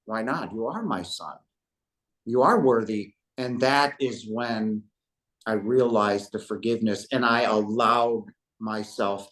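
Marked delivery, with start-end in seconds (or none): 0.0-3.1 loving but stern father. Retold or imitated. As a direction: speak as a tender but firm father to his son. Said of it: "in a very loving, but yet fatherly, stern voice".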